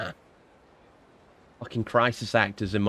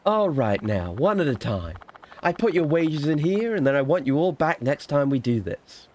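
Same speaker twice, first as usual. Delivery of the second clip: lightly voiced boss of a fake queue; woman paying the hired crowd; 5 semitones higher than usual. Fortune-teller to her paid actors, lightly acted role. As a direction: hand out wages in a lightly acted voice.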